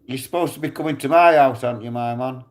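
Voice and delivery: mild shout down at a man; retold shout. Driver to a man who owes him a visit, shouting down. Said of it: "shouted down".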